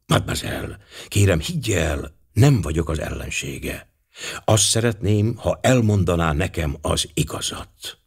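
put-on gentle reassurance to a frightened girl; very gently. Poirot calming the suspect Katrina, gentle. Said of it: "Poirot nagyon szelíden szólt hozzá".

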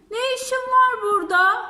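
fox challenges. Acted.

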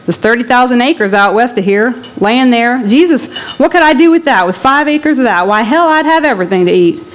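lightly voiced migrant, dreaming aloud of land; a hungry farmer aching for the acres; longing Okie man.

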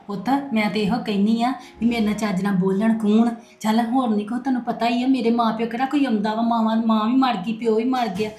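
sorrowful lament. Acted. Mother laments her dead parents.

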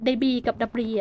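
"The Breeze กับ The Breeze" as day-bree and da-bree; two readings of debris. Shown as a demonstration. Player showing viewers both readings, day-bree and da-bree. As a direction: contrast the first vowel in "The Breeze กับ The Breeze", S silent. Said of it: "มันอ่านได้สองอย่างค่ะ".

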